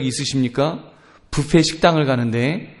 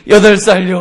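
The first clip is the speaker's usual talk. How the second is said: loud, higher acted kid reply; sudden loud mock-child outburst; blurted child's answer; 5 semitones higher, 9 dB louder than usual. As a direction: blurt it out without thinking. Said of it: "애가 얼떨결에".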